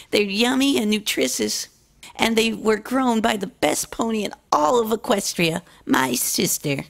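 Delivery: lightly high filly voice, pleased; happy and proud of herself; young filly voice proud of herself; cheerful little filly. Acted. Noi's sales pitch.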